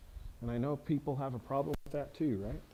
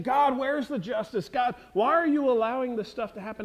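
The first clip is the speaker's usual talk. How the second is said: crying out; 6 semitones higher, 5 dB louder than usual. Retold or imitated. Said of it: "Habakkuk is crying out".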